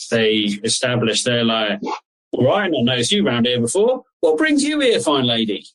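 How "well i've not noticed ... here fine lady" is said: lightly voiced West Country wolf, pitch jumping up; West Country accent. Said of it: "in their best West Country accent".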